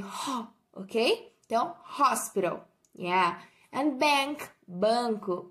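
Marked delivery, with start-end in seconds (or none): 2.0-2.7 hospital with a breathy H at the start; H sounds like R. Shown as a demonstration. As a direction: open hospital with the H like an R. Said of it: "O H, ele vai ter um som de R".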